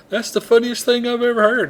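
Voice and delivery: high, loud, fast mock hilarity; imitated hilarity. Coworkers mocking his pronunciation, imitated hilarity. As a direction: exclaim as if cracking up. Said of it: "they'd break down laughing like".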